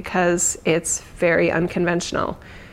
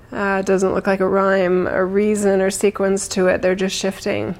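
guided meditation. Acted. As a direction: ease them gently into calm. Leads a meditation.

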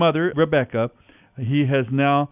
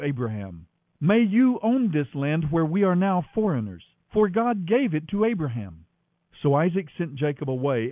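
scripture reading; 2 semitones higher than usual. A narrator's reading. Radio host reading Genesis to listeners, storytelling narration.

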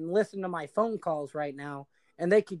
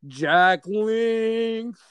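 loud howling creature call; bigfoot howl; 5 semitones higher, 6 dB louder than usual. Acted. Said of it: "listen, Bigfoot howls are this".

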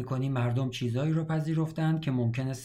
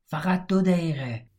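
higher, louder and slow; shouted plea; 5 semitones higher, 5 dB louder, slower than usual. A narrator's reading. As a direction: shout it across the room, begging for time. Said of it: "هری داد زد".

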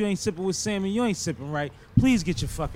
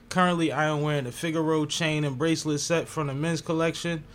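calm, softer ad copy read; holiday sale ad; 4 dB quieter than usual. Acted. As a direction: read the sponsor script evenly. Reads sponsor ad copy.

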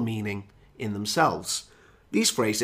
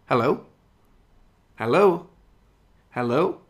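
calling down a dropped phone line; questioning hellos, each rising, with pauses to listen; seeking attention. Pretend. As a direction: check if the friend can still hear. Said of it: "trying to get your friend's attention".

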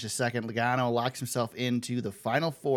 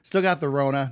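talking around a cough drop in mouth. Real, not acted. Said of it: "with a cough drop in my mouth".

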